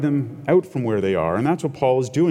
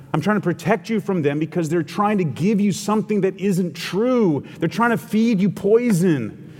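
pleading; 3 semitones higher than usual. Retold or imitated. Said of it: "with that attitude".

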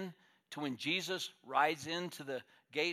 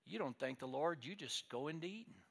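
put-on little boy blurting; 3 semitones higher than usual. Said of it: "blurted out what was on his heart".

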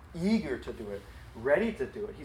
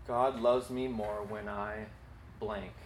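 slow and quieter second dictation; soft slow repeat; softer slow repeat; 3 semitones lower, 6 dB quieter, slower than usual. Shown as a demonstration. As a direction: repeat it gently for writers. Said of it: "write down these two sentences".

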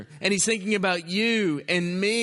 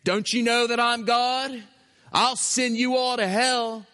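raised-pitch mock threat to a crowd; higher-pitched, indignant outburst; imagined angry threat; 5 semitones higher than usual. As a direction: act out a threat that was never spoken. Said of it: "Never once does Jesus say".

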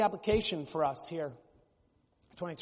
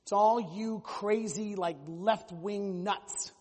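slow, sneering drawl of a mock churchgoer; mock scornful conservative; much slower than usual. Pastor mimicking a conservative scolding liberals, slow mock sneer. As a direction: stretch out each word like a dismissive critic. Mocking one side of church.

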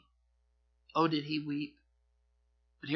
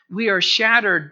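louder, proud cry of defeat; loud defiant cry; 4 semitones higher, 9 dB louder than usual. Retold or imitated. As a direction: shout it, wounded but proud. Edom quoted, loud lament.

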